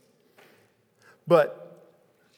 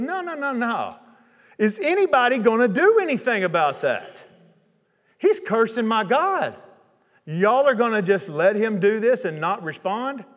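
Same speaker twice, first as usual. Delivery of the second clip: David's outrage; 5 semitones higher than usual. Retold or imitated. Young David refusing to let the giant's curses pass, insistent. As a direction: push back hard, no, no, no. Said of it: "David threw a fit".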